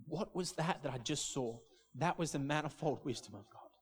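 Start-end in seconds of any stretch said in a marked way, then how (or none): 0.1-1.6 awed, tearful hush. Retold or imitated. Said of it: "just burst into tears".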